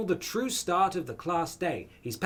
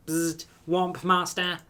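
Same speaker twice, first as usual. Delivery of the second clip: robot voice; 3 semitones higher, slower than usual. Acted. Robot character Clank.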